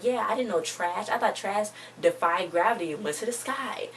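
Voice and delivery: mock-sarcastic retort, drawn out; retold sarcasm. Retelling her jab about the trash, lightly sarcastic. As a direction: play up the obvious with mild sarcasm. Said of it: "she was being all sarcastic to him".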